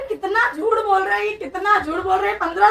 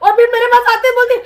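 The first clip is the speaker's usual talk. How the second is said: angry accusation. Real, not acted. Angry wife accuses him to viewers.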